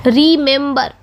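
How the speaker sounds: रिमेंबर split into री, मेम, बर; रिमेंबर by syllables. Shown as a demonstration. Teacher breaking the example word down, रिमेंबर said by syllables. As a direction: sound out रिमेंबर in three clear syllables. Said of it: "री, उसके बाद".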